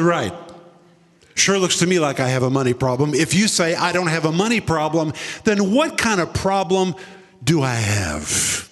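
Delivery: sarcastic, slightly fast retort. Retold or imitated. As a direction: talk back to God sarcastically. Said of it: "I got sarcastic with the Lord".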